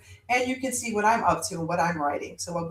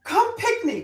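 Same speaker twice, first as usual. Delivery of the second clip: Jamaican exclamation; 12 semitones higher than usual. Retold or imitated. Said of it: "which is a word for kids".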